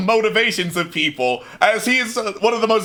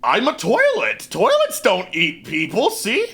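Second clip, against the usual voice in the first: mimic voice; 3 semitones higher than usual. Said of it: "says one".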